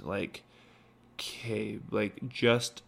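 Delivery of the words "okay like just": slow, measured, serious warning; gravely prepare someone for what awaits, with pauses; most serious voice. Retold or imitated. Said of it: "telling me in the most serious voice".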